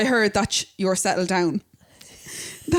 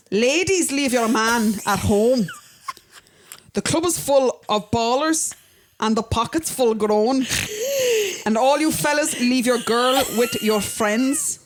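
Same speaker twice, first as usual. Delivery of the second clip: put-on Scottish accent; slower than usual. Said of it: "Do it in a Scottish accent".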